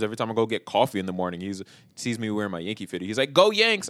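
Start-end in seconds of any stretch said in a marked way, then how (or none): 3.3-3.9 higher, louder mock team cheer; imitated fan cheer. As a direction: cheer like an overeager stranger. Mimics cheering fan at coffee shop.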